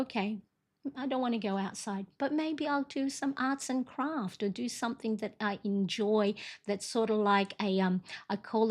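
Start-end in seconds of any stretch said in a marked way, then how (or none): 0.0-6.3 soft, resigned self-talk; quiet resignation. Retold or imitated. After sitting a while, wife quietly talks herself round. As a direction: talk yourself round gently, under your breath. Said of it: "I'll sit there for a while and go".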